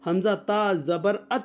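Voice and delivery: slow, spelled out, ات with a clear final ت; recitation demo. Shown as a demonstration. Teacher models the spelling before asking the student to repeat. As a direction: say حمزہ تا زبر ات slowly for the student to repeat. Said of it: "بولو".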